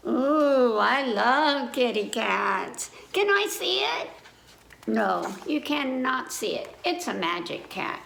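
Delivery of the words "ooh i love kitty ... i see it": a lightly voiced, eager puppet begging to see. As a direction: coo over the kitty, then plead. Puppet monkey begs to see.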